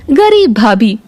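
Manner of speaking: ordinary delivery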